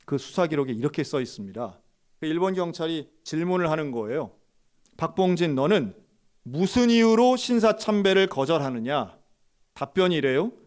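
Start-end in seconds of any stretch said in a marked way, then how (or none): 5.0-9.2 a raised, demanding police question; stern interrogator. Retold or imitated. Japanese officer questioning the pastor, stern and raised. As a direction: press him hard like an interrogator.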